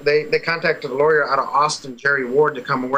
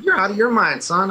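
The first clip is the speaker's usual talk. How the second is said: higher-pitched mock-indignant comeback; retold indignant retort; 5 semitones higher than usual. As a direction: throw it back at him, pitched up.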